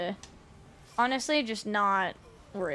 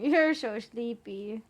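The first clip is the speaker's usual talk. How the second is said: slow coo; 5 dB louder, slower than usual. Real, not acted. Cooing at sleepy cat.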